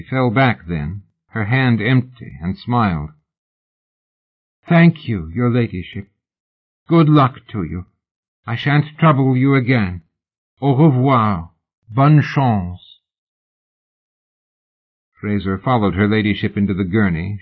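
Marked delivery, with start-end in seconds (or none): 4.7-13.0 higher, lightly voiced admirer saying goodbye; bow out politely; woman bidding the lady farewell; gracious farewell. Fan takes leave.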